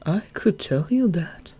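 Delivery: slow menacing whisper; gentle deadly voice. Acted. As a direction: whisper it like a kiss of death. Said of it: "a gentle voice, like the kiss of death".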